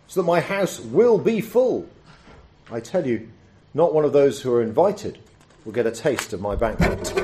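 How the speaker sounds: measured Bible reading, lively for the quoted voices; scripture reading. Acted. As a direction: read the passage aloud to the congregation. Reads the Bible passage aloud.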